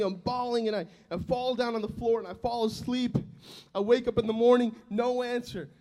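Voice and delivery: ordinary delivery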